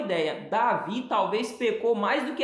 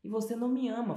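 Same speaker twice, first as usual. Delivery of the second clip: mock self-pity; 2 semitones higher, 3 dB quieter than usual. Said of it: "Aí é aquela coisa assim".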